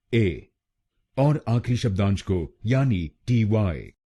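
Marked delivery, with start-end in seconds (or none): 0.1-0.5 ए said alone, short; syllable demo. Shown as a demonstration. Teacher isolating the third syllable. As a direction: give ए on its own. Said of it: "हम बोलेंगे ए".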